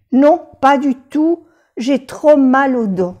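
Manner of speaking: patient tells the doctor about pain, mild mock whine; mock complaint. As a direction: complain about your back. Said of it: "se utiliza mucho cuando tiene mucho dolor".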